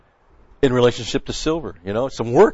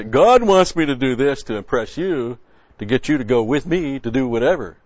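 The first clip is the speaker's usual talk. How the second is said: hammed-up pushy believer using God as cover; a hint of a pushy show-off; mock self-serving claim; 2 semitones higher, 4 dB louder than usual. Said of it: "and I'm gonna say".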